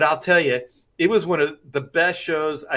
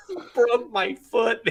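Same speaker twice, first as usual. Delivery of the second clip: laughing; 7 semitones higher, slower than usual. Real, not acted. Laughing at his own injury.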